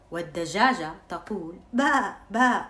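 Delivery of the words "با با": hen bleating. Acted. Hen baas in story.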